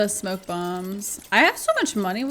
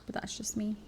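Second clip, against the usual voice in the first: whispered aside; 10 dB quieter than usual. Real, not acted. Aside, unvoiced.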